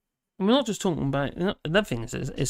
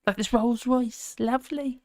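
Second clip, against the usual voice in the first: mocking the brat; 8 semitones higher than usual. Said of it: "he is a brat".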